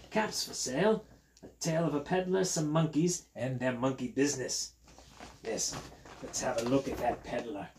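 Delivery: put-on British read-aloud for children; lilting put-on British storyteller; British accent like Steve. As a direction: show off the peddler in a London-style accent. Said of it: "I do a sort of British accent".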